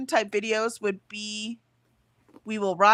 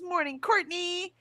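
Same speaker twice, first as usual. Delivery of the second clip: high, slow sing-song good morning; sing-song greeting; 10 semitones higher than usual. Retold or imitated. Streamer reading a viewer's greeting, high sing-song. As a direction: draw out a cheery hello.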